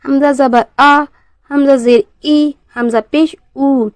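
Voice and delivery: slight catch before "आ", "ई", "ऊ"; measured demo, glottal start on "आ", "ई" and "ऊ"; hamza with jerk. Shown as a demonstration. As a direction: recite evenly, jolting the onset of "आ", "ई", "ऊ". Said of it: "झटके के साथ अदा किया जाता है".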